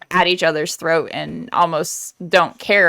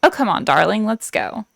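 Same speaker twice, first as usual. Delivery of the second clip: higher, lightly acted adventurous heroine; Bianca; 3 semitones higher than usual. Quoting Bianca's last line to Bernard, playful coaxing without the accent. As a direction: list the delights one by one, coaxing him along. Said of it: "the last line that she says is".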